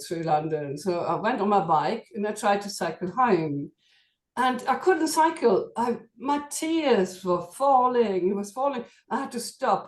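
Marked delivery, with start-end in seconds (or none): 4.4-9.9 tearful. Real, not acted. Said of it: "very sad now".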